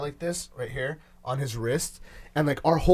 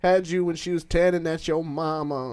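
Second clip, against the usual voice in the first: grandma voice; 3 semitones higher than usual. Retold or imitated. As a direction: play the grandma confessing.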